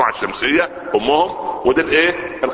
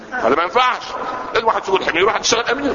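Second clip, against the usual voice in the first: raised exclamation; 9 semitones higher, faster than usual. Real, not acted. Exclaiming against everyone leading.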